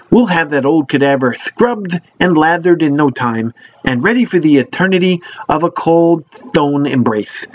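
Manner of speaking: upbeat commercial announcer; ad read voice. Acted. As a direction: sell it like a radio ad. Mock sponsor ad read continues.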